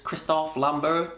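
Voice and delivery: Christophe Lambert said the French way, no r sound in Christophe; French-style Christophe Lambert; French pronunciation. Shown as a demonstration. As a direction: Christophe spoken slowly as a French name. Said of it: "that's how you say his name in his native language".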